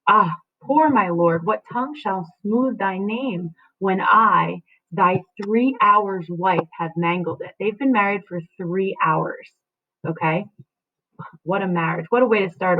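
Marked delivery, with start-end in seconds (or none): 0.1-7.5 slow, mournful lines; sorrowful reading. Acted. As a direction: linger on thy three hours wife. Juliet's lament read slowly.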